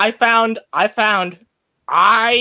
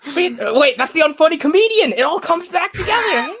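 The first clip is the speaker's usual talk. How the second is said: laughing; 14 semitones higher than usual. Real, not acted. Giddy laughing high voice.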